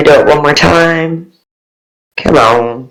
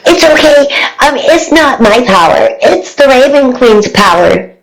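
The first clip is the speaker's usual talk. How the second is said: put-on high, sweet child voice; little girl voice; 5 semitones higher than usual. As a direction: reassure like a small girl.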